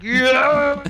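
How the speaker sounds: high, loud whoop; cheering. Acted. Blue clapping up on the patio, loud cheer. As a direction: cheer from the sidelines.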